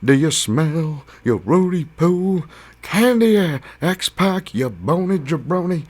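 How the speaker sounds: booming high, drawn-out wrestling catchphrase; The Rock. Acted. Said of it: "The Rock said".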